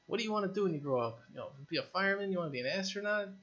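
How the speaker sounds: high, quick sing-song grown-up voice; adult quizzing a kid. Pretend. An adult asking a kid about the future, in a high, quick sing-song voice. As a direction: playfully mimic an adult asking a child about dreams.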